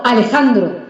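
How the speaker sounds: mildly cross calling of the name; annoyed full name. Acted. Parent turned cross calling the child by full name, annoyed.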